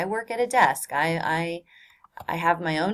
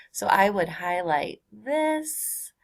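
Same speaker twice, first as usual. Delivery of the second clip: whisper; slower than usual. Real, not acted. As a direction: murmur it to yourself while marking. Teacher murmurs aside while annotating.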